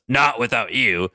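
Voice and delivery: Logan. Acted. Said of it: "And Logan goes".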